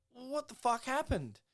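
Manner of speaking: high, incredulous mock squeak; mock disbelief. Craig reacting to Gary's spider story with a high mock disbelieving squeak. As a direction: act out Craig's bewildered outburst.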